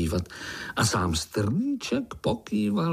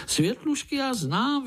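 much higher eager blurt; exclaiming eagerly. Acted. Pája interrupts uncle's story, high eager exclamation. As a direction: blurt it out before you can stop. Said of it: "vykřikl Pája".

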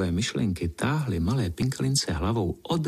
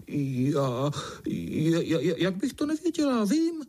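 stammering, rising ever higher in a flustered bluff; the caught-out ladybird stammering, climbing high; unsure stammer; 7 semitones higher than usual. Acted. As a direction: stumble over the start then squeak out vím. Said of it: "i když dost nejistě".

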